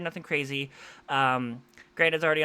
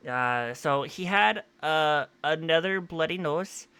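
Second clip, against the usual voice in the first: slow, drawn-out put-on accent on "another bloody nose"; drawling unplanned accent, unaware of it; odd put-on accent; 4 dB louder, slower than usual. Real, not acted. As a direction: slip into a strange slow accent without meaning to. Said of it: "I don't know why I'm talking like that, this accent here".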